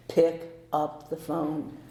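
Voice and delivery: slow, deliberate command from within; a calm guiding voice; slow inner voice. Retold or imitated. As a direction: spell it out slowly like a voice in your head. Mysterious voice in her head.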